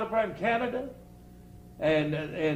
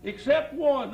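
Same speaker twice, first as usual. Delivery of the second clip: put-on much higher voice for the old hunter; high-pitched old hunter telling a duck joke; 8 semitones higher than usual. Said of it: "had a high voice".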